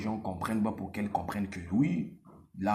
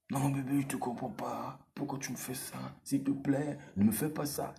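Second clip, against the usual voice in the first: put-on pleading girlfriend; 3 semitones higher than usual. Mocking how the girlfriend begs her man.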